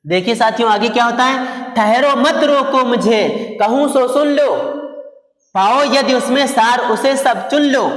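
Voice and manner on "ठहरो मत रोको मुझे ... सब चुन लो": poem recitation. Acted. Teacher reciting Kaikeyi's verse to students, measured poem recitation. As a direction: recite the verse deliberately, pausing between phrases.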